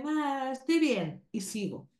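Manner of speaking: hammed-up offhand shrug; lightly mocking a lazy body check; dismissive quick check. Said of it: "No es un chequeo de".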